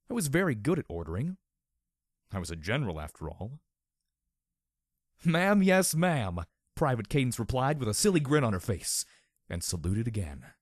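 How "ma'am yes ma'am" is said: higher snappy yes ma'am; crisp soldier reply. A narrator's reading. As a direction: snap it out like a recruit. Private's salute reply.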